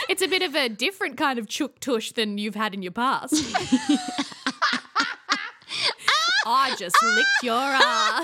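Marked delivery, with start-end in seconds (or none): 3.3-8.2 much higher, laughing scream; losing it at the rude joke; shrieking laughter. Real, not acted.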